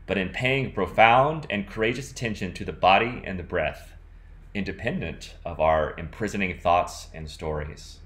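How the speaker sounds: earnest, measured poem reading; poetry reading. Acted. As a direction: read on as if reciting to an audience. Continues reading the passage.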